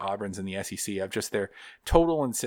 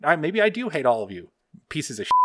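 mock fury; 6 semitones higher, 4 dB louder than usual. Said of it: "I'm like".

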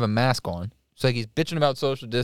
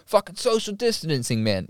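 high-pitched imitated outrage; mock angry rant; 6 semitones higher than usual. Storyteller voicing the angry man in line, mock rant.

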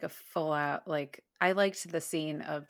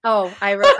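ordinary delivery

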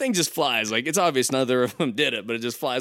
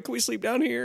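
put-on high pleading child voice; whiny kid; 13 semitones higher, 3 dB quieter than usual. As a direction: beg like a little kid at bedtime. Kids begging parents at night.

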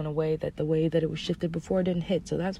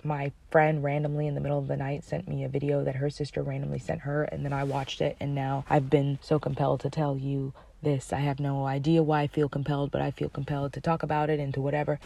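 1 casual rambling; 2 semitones lower, faster than usual. Shown as a demonstration. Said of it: "I could also say it like".

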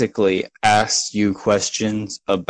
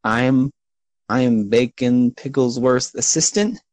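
higher-pitched, hesitant gnome; Baker; 3 semitones higher than usual. Acted. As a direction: introduce yourself as a halting little gnome assistant. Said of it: "that's a gnome".

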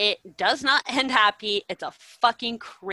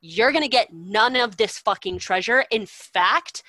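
loud, angry telling-off of cowards; furious rant; 6 dB louder than usual. Retold or imitated. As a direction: chew the soldiers out, full of scorn. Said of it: "he's just, like, furious".

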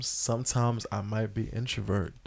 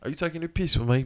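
put-on playful amateur British accent; 3 semitones higher, faster than usual. Joking for co-hosts, quick mock British accent. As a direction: mimic an affronted Brit, lightly. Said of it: "I just love how British people talk".

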